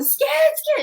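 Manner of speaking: put-on high, frightened little-child cry; imitating a scared toddler pointing at the closet; mother imitating her frightened toddler, high and scared. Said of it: "she started screaming".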